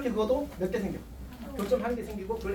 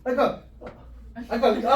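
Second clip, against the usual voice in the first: insistent protest; 3 semitones higher, 6 dB louder than usual. Real, not acted. Teacher insists over students' objections.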